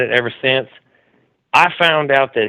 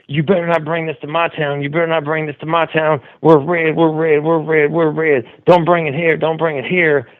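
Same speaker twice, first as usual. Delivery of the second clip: mock warning; 3 semitones higher than usual. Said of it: "I keep calling in the A B L going".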